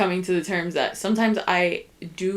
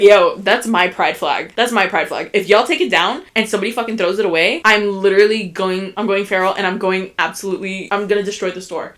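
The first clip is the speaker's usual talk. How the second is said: loud warning; 5 dB louder than usual. Retold or imitated. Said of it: "I was like".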